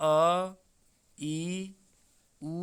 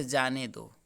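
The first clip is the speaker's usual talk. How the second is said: जाने दो lower, falling after the pause; जाने दो set apart; 5 semitones lower, slower than usual. Shown as a demonstration. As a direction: drop down for a separate जाने दो. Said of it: "यहाँ विराम लिया".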